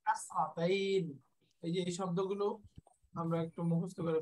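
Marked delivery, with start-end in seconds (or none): 0.1-1.0 কাসরাতাইন slowly, as kas-ra-tain; Arabic term pronounced. Shown as a demonstration. Teacher giving the Arabic name to learners, slow pronunciation of কাসরাতাইন. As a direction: draw out the last syllable of কাসরাতাইন. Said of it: "এটাকে আরবিতে বলি".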